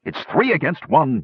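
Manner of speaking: high, urgent yell at the goblins; the master screams at his goblins to attack; yelling orders. A narrator's reading. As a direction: shout them into the attack. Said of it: "yelled the man from the shadows".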